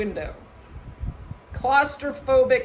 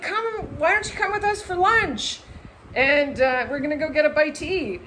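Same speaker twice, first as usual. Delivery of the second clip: friendly invitation; 5 semitones higher than usual. Retold or imitated. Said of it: "he was like".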